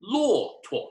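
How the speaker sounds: teacher modelling neutral tone; model word. Shown as a demonstration. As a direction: lift 骆驼 high, let 驼 float. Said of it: "Remember that tuo".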